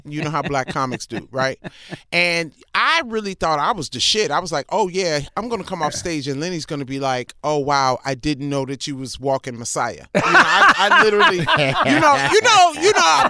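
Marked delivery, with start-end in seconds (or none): 4.7-10.1 low, smug self-satisfaction; mildly mock-awed praise, pitched low; cocky daydream. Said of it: "that's how cocky".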